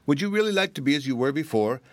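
quick, high little bird voice; cartoon bird voice. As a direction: chirp it like a small canary. Canary speaks to Tommy.

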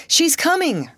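very high-pitched announcement; excited, high call; excited cry. A narrator's reading. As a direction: call out the news, pitch leaping up. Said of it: "cried the operator".

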